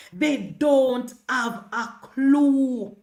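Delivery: drawn out, very slow and deliberate; slow mocking repeat; slow emphatic repeat. Real, not acted. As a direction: stretch every word of They don't have a clue.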